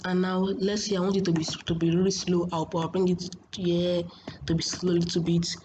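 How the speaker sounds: ordinary talk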